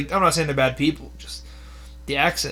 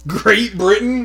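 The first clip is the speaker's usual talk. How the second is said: incredulous echo; 6 semitones higher, 6 dB louder, slower than usual. Real, not acted. Echoes friend's ancestry answer in disbelief.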